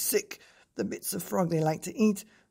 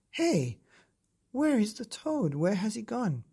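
baffled cry; 6 semitones higher than usual. A narrator's reading. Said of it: "the Frenchmen with their knives cried".

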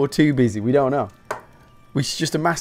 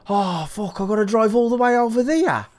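put-on Black Country accent; 9 semitones higher than usual. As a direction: imitate a groaning Brit in Black Country accent. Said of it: "maybe not in a black country accent".

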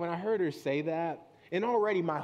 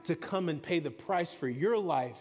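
slow, earnest voice of God longing; tender pleading. Retold or imitated. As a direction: say it as a loving father. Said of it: "God looks at you and says".

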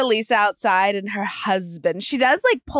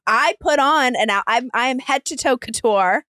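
imitating an affronted, higher-pitched retort; mock indignation; 4 semitones higher, 3 dB louder than usual. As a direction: play it offended and proud of the outfit. Mimics Lisa's indignant retort on show.

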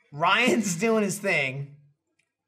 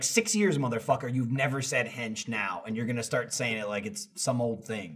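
lower, softer grumble; low grumbling retort; 11 semitones lower, 8 dB quieter than usual. Retold or imitated. Calling out Gavin over a new word, low grumble. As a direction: grumble it low, as a retold complaint.

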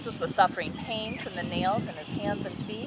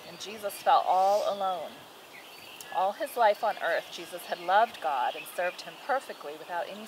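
put-on measured, clear read-aloud to a child; storybook narration with firmly projected key words; Bible story narration. A narrator's reading.

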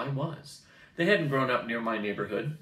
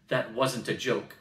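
barked; slower than usual. Acted. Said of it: "Mongrel barked".

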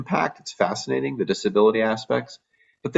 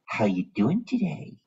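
put-on mild baby talk. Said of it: "sit in front of a patient's bed and like".

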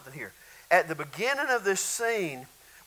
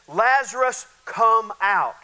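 raised, louder voice, higher on the name; loud commanding call; 4 semitones higher, 7 dB louder, slower than usual. Retold or imitated. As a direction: call the dead man out firmly. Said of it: "Jesus shouted in a loud voice".

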